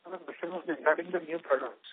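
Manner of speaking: muffled, like a hand over the mouth. Real, not acted. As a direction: speak through a covering over the mouth. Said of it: "you're sounding muffled now".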